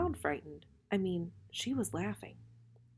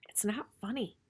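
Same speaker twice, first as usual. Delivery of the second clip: quiet sulky protest; 3 semitones higher, 3 dB quieter than usual. Acted. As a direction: push back, a little hurt. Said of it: "I protest".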